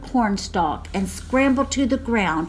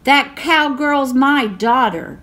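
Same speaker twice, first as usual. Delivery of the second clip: loud, higher defiant shout; mother shouting; 5 semitones higher, 6 dB louder than usual. A narrator's reading. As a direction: protect your child. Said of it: "she shouted".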